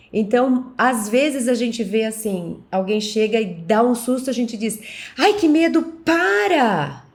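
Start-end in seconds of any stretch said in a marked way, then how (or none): 5.1-6.9 high, swooping put-on fright mixed with annoyance. Acting out a reaction to someone giving a scare: acting scared and angry. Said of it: "a gente ficou com medo e com raiva".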